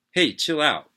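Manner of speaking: loud, high snap to back off; sharp call to chill. Acted. Paramedic telling partner to back off, loud sharp snap. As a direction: tell him to cool it, loudly.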